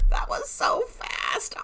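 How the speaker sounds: slow, stunned whisper; hushed, slow and amazed; excited whisper. Real, not acted. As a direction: breathe it out in amazement. Trade hit target in seconds.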